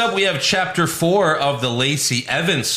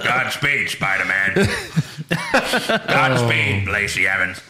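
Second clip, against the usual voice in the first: mock farewell, laughing; hammed-up dying words; overacted death scene; 5 semitones lower than usual.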